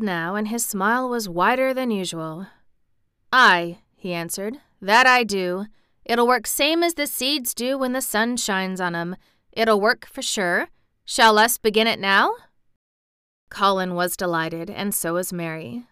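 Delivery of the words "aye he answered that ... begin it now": put-on a cheerful Yorkshire boy, broad and friendly; Yorkshire dialect, pleased and admiring; Yorkshire lad. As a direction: speak it like a Yorkshire farm lad. Dickon answers Colin.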